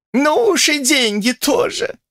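high, slow, grumbling crone voice; displeased old woman. A narrator's reading. Grandmother to Olesya, displeased high grumble. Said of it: "с неудовольствием возразила старуха".

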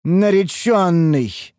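drawn-out eerie call; eldritch horror. Acted. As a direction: howl the word slowly, possessed. Possessed elf calling.

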